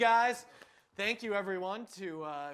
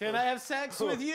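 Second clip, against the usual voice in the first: higher mock proposition, stretched last word; bumbling would-be john; 4 semitones higher than usual. Class dunce practicing the scenario, mock over-eager. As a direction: draw out YOU in a pretend try. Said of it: "the guy who messes up the scenario".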